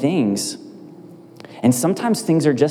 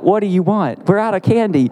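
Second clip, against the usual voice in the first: mock suspicious; 7 semitones higher than usual. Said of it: "I'm like".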